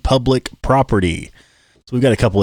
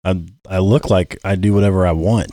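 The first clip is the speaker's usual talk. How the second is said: deep monster voice filter; 5 semitones lower than usual. Real, not acted. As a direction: voice changer monster effect. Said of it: "I got the monster voice on there".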